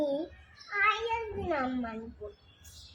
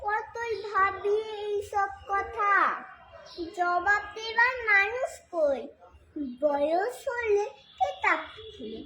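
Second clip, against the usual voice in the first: lilting, measured recital of a verse; poem recitation; 4 semitones higher, 4 dB louder than usual. Acted. Reciter performing Sukumar Ray's poem for listeners, lilting recitation. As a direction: recite line by line, pausing between phrases, questions sung out.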